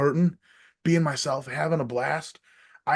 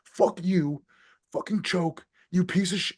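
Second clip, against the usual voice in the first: retold tirade; 5 semitones higher than usual. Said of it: "And then I was like".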